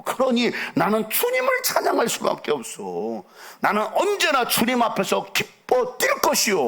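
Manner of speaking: high, declaiming biblical king; impassioned David. Acted. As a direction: proclaim it with rising fervour, pitched high. Voices David answering his scornful wife.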